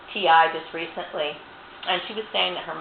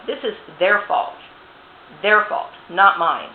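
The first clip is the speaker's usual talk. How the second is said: louder, biting real anger; rising fury, louder and louder; real angry outburst; 7 dB louder, slower than usual. Real, not acted. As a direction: hammer home whose fault it is, louder each time. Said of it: "I have every right to be angry".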